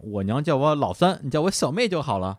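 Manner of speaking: put-on a touch of a lively young girl; lively little girl. Little girl introducing herself to Gu, lightly lively. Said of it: "小姑娘就很活泼地说".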